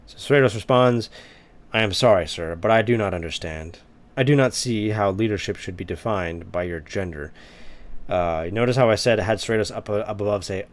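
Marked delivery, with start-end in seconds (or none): 1.7-7.3 dramatic formal reading. Acted. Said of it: "trying to make him sound dramatic".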